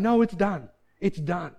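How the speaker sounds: settled, dropping back to normal volume; calm insistence. Acted. Believer answers his protesting body, calmly insistent.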